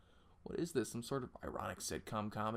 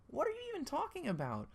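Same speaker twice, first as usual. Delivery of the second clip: indignant. Acted. Chaser indignant.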